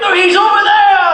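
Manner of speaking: gleeful high laugh. Acted. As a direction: giggle it out, giving the game away. Blind man's bluff party game.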